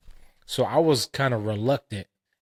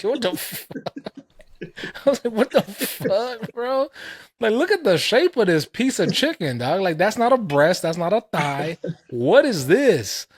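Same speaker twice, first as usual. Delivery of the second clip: much higher, louder outraged squeal; shocked disbelief; 10 semitones higher, 5 dB louder than usual. Retold or imitated. Friend at Korean chicken spot, shrieking high disbelief at the chicken piece.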